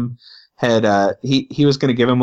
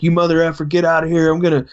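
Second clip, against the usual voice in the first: higher-pitched imitation of angry yelling, no real volume; mock screaming; 5 semitones higher, faster than usual. Transient guy chasing off the pastor, mock screaming. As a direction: imitate a screaming rant at half strength. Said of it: "he starts screaming at me again".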